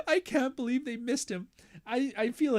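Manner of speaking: words squeezed out through laughter; high laughing aside. Real, not acted. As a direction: laugh while saying it.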